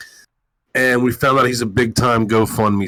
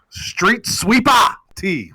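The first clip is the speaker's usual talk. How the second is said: stretched out, higher, like a ring announcer; hype introduction; 8 semitones higher, much slower than usual. Real, not acted. Host hyping a co-host's name, announcer style. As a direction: drag the name out slow and big.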